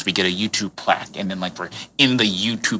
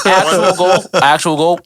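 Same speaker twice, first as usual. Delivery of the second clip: loud, high, excited; 8 semitones higher, 5 dB louder, slower than usual. Real, not acted. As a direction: call it out excitedly. Excited joking about goals.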